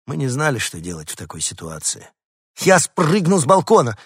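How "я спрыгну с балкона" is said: high, loud declaration; little dog threatening to jump off the balcony; determined little dog. A narrator's reading. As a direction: announce it boldly. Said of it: "решительно заявил Дуля".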